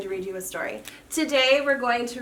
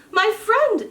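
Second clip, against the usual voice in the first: chortling; 10 semitones higher, 4 dB louder than usual. Acted. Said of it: "chortled James".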